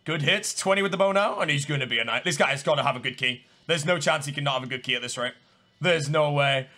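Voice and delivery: ordinary talk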